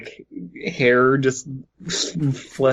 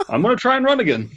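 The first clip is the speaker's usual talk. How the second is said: Hillary Clinton impression; 8 semitones higher, much faster than usual. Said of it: "dresses up as Hillary Clinton".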